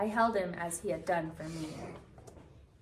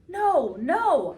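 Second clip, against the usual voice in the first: much higher, louder desperate plea; begging; 8 semitones higher, 10 dB louder than usual. A narrator's reading. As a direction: plead as they drag you. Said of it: "I begged".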